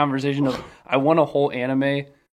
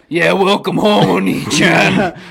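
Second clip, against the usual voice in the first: anime sister voice; 4 semitones higher, 6 dB louder, slower than usual. Pretend.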